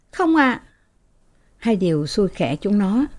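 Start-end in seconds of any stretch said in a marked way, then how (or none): 0.1-0.6 scared. Acted. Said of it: "sợ hãi".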